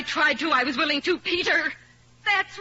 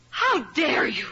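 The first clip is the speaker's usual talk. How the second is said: sharp angry cry; furious rebuke; indignant outburst; slower than usual. Acted. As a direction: hurl it at him, outraged. Ethel erupts at Peter.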